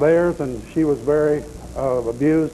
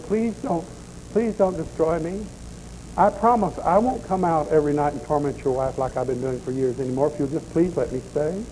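begging doll voice; 4 dB quieter than usual. Retold or imitated. Doll begs for its life.

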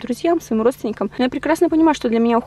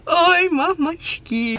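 drawn-out startled gasp; slow, shaken exclamation; 6 semitones higher, much slower than usual. Real, not acted. Hit by strong wind.

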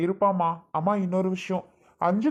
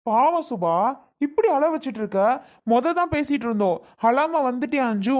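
raised-pitch, upset reproach; reproachful scolding; 4 semitones higher than usual. Acted. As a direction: shame them for causing the tears. Acted reproach for causing tears. (ஆதங்கத்தோட கடிந்து பேசுவது)

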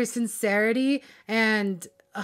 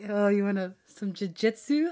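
laughing playful quote. Retold or imitated. Fan retelling a playful bedroom line, laughing through it. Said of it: "she was like".

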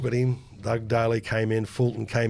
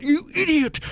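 laughing. Real, not acted. Laughing at mate's blunder.

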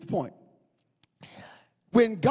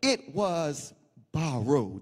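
low and soft, sinking lower; hushed confession, voice dropping away; almost whispering; 9 semitones lower, 5 dB quieter, slower than usual. Acted. Servant tells Elisha up close, almost whispering. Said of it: "he was almost whispering".

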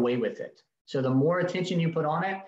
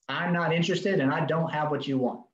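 very clear tone. Shown as a demonstration. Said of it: "in a very clear tone".

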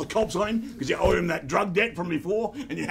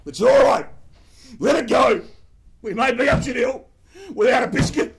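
imitating chief; 5 semitones higher, 9 dB louder than usual. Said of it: "He said".

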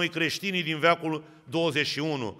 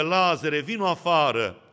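calling out. Acted. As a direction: call him out of the tomb. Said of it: "ne strigă".

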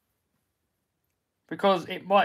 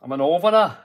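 put-on northern accent; 3 dB louder than usual. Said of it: "How's my northern?".

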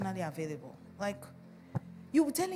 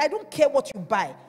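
insistent; 7 dB louder than usual. Real, not acted. Insisting on apology first.

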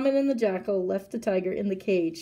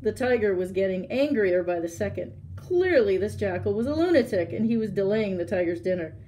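louder, projected storybook reading; story narration; 6 dB louder than usual. A narrator's reading. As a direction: read it out to an audience. Reads a story aloud.

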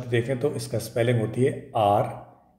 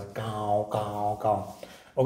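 crow caws; 3 semitones lower, 6 dB quieter, much slower than usual. Shown as a demonstration. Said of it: "कर्कश आवाज़".

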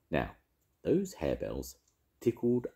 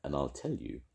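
sprite voice. Acted. Will-o'-the-wisp tells the tale.

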